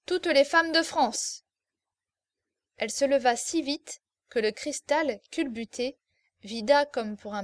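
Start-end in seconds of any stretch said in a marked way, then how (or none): 0.0-1.4 higher, louder, slow and gloating; slow shouted toast. Acted. Marquis gloating to the table, slow shouted toast. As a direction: stretch out each word in triumph. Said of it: "cria-t-il".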